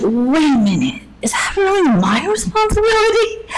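startled realization. Retold or imitated. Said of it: "even I was like".

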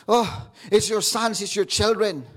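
hint of a weepy devil; mock crying devil. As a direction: whine it like the sulking devil.

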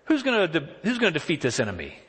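high, fast, disbelieving questions; mock-outraged asking around; incredulous David. Preacher acting David asking the soldiers, incredulous and pitched high. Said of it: "he keeps repeating and asking people".

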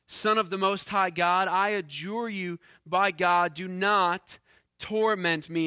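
understated crying out, a touch of force; mild loud cry. Acted. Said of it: "crying out with a loud voice".

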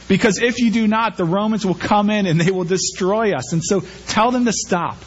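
indignant leaders insisting, voiced by a preacher; furious religious leaders.

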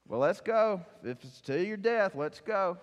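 rally them with resolve; bold Thomas. Acted. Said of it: "Then Thomas says".

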